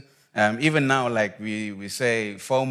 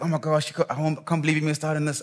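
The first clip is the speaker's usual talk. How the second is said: higher-pitched, hurried mock excitement; imitating excited friends; 4 semitones higher, faster than usual. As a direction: gush like friends back from an outing. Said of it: "excited, like".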